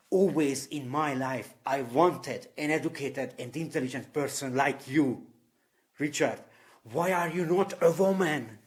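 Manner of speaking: a hint of her desperate longing; retold upset plea. Roommate pleading with Richard, mildly upset and earnest. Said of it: "she was completely, completely upset".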